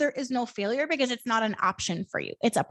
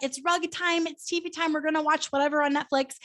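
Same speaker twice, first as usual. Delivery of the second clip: higher, bright announcing to little ones; cheerfully herding toddlers, pitched up; sing-song mom voice to kids; 5 semitones higher than usual. Retold or imitated. Mom announcing rug time to her kids, higher sing-song. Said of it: "I taught them".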